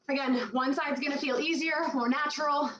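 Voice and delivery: panting between words; out of breath. Real, not acted. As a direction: talk while catching breath. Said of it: "I'm so out of breath right now".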